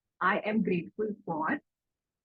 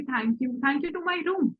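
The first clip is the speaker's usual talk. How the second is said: slow inner thanks; 3 semitones higher, much slower than usual. Shown as a demonstration. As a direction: say it slowly as if saying it to yourself. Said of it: "तो मैं मन में ही ऐसे बोल दूंगी".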